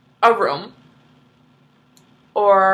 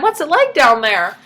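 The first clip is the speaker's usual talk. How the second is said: calling out; 3 semitones higher, 6 dB louder than usual. Retold or imitated. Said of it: "the husband's like".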